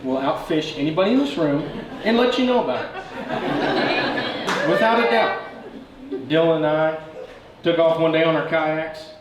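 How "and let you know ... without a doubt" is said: high, laughing tease, slow. Real, not acted. Best man laughing as he teases the bride about fishing. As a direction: grin and laugh it out.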